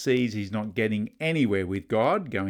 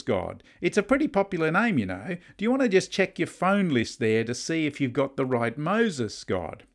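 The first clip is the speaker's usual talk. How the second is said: higher-pitched, jokey protest with a light "ha"; amused disbelief; 4 semitones higher than usual. Acted. Moses imagining God has the wrong man, amused disbelief. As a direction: humour God as if he's slipped up. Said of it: "Moses chuckles to himself".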